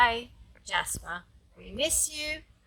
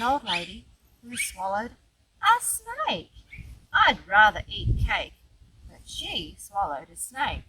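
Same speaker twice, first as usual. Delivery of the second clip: put-on lilting, rhythmic read-aloud for a small child; children's story narration; 3 dB louder than usual. A narrator's reading. Grandma reading a cumulative rhyme to her grandchild, storytime narration. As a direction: read the rhyme playfully, lifting the key words. Reads picture book to grandchild.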